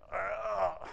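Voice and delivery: slow, soft creaky "ugh" of stiff joints; creaky groan. Retold or imitated. Preacher joking about creaking joints, slow soft groan. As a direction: groan like an old body getting up. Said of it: "And it means a creaking".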